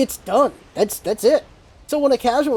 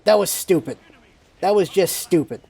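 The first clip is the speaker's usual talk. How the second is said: blunt; 3 semitones lower than usual. Shown as a demonstration. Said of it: "Instead of going".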